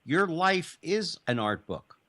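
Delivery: Your stressed, each word drawn out slowly; slow emphatic point. Real, not acted. Host makes his point emphatically.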